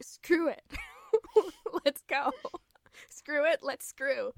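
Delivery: loud, high, laughing mock Edward; hammed-up eager shout with laughs. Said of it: "he's like".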